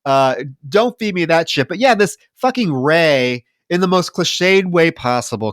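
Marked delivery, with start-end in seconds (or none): none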